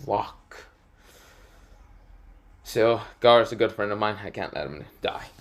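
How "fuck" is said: muttered curse. Acted. Naruto reacts to the new mission.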